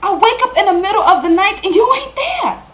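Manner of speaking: aggrieved reproach; hurt accusation. Acted. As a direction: confront an absent partner, voice rising. Acted quarrel, accuses him of absence.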